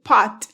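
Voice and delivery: "pot" with the final T popped audibly; "pot" ending on a crisp released T. Shown as a demonstration. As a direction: let the T in "pot" burst at the end. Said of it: "a no ser que la frase termine".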